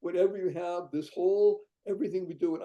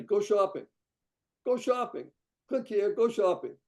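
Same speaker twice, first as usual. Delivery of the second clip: louder, higher, repeated "go shopping" call; upbeat urging; 5 semitones higher, 4 dB louder than usual. Retold or imitated. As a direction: sell it like a cheerful ad. Pitch urging supporters to shop.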